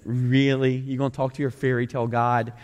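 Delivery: sneering, incredulous online commenter; mocking snark. Commenter mocking a believer's faith, snarky and incredulous. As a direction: scoff at the believer, drawing it out. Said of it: "What are the comments underneath it?".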